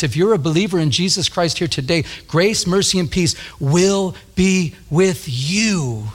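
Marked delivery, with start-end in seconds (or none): 2.3-6.1 slow, sure blessing over the listeners; confident blessing. Real, not acted. Pastor blessing believers in the church, slow and confident. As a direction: pronounce it slowly, with full conviction. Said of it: "I want to say it with confidence".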